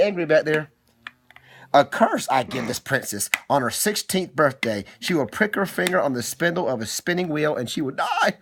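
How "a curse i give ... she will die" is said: witch voice. Acted. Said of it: "Why are you talking like the witch?".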